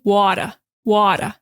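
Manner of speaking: Boston "water", wide open mouth, no final r; Boston accent. Shown as a demonstration. Teacher showing students the Boston way to say "water".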